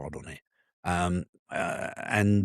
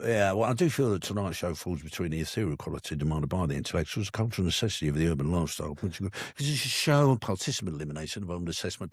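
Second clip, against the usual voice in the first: mock pompous big words; faster than usual. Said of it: "I open up with".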